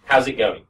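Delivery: "How's it going?" with the G dropped. Shown as a demonstration. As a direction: run it together, no final G. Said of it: "I just go".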